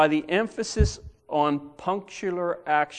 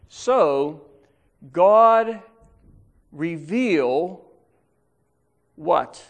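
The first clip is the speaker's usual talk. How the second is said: rising preacher's call; preaching climax; 7 dB louder, much slower than usual. Acted. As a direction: build to God and drop the question.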